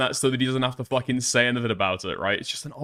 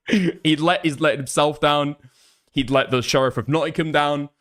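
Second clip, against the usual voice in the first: mock tearful retelling. Mock retelling of crying confession.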